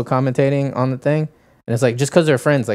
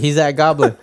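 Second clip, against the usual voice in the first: raised-pitch urgent callout; mock yelling; 5 semitones higher than usual. Rando selling the fake spot to Hiko, mock yelling. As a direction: imitate a mildly alarmed teammate. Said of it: "yelling it".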